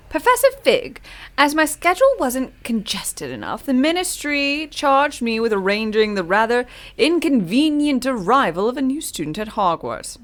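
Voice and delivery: lightly posh British gentleman voice; Professor Black posh voice. Acted. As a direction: read it like a snooty old headmaster. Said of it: "You love my posh voice".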